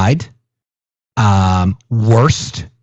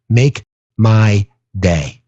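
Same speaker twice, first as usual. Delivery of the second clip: tough-guy challenge; 4 semitones lower, much slower than usual. Retold or imitated. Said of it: "reading the president's post".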